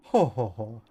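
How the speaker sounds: attempted posh "ho, ho, ho" laugh. Shown as a demonstration. Streamer attempting a posh laugh on request, mock ho-ho-ho. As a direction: fake an upper-class laugh. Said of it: "how to make a laugh sound posh".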